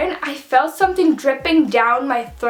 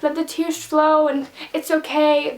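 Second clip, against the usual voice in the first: sweet consoling lady; 3 semitones higher than usual. Retold or imitated. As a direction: retell a kind stranger's gentle reassurance. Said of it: "She was really sweet".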